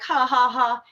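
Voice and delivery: imitated scornful "ha, ha, ha"; mocking laughter. Officer laughing at driver who says they lie, mocking. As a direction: mimic a jeering officer, drawing out the reply. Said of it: "the officer starts laughing at me".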